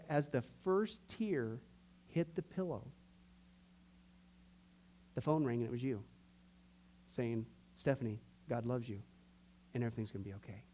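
soft, low, with long pauses; quietly reverent quote; hushed solemn retelling. Retold or imitated. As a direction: let it sink to near-silence. Retells the climax of her story.

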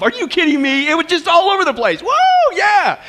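high, excited outburst; overjoyed rebuttal to a dull voice; exuberant disbelief. Acted. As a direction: burst out thrilled, ending in a whoop. Answering the joyless convert mockingly.

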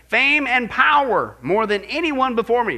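slow, loud royal boast; proud boast. Retold or imitated. Quoting Solomon's boast.

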